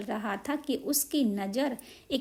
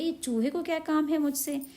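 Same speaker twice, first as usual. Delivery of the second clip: higher, scornful tailor voice; grumpy tailor; 4 semitones higher than usual. A narrator's reading. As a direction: sneer at the little mouse. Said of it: "दर्जी गुस्से में हो गया".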